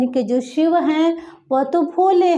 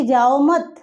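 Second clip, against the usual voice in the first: जाओ मत as one phrase, pause after मत; no break after जाओ, stop after मत; group जाओ मत together; मत joined to जाओ; slower than usual. Shown as a demonstration. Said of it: "वो कह रहा है कि".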